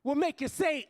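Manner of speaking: rhythmic stage poetry with rising heat; spoken word poem. Acted. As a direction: perform it like a slam poem for a crowd.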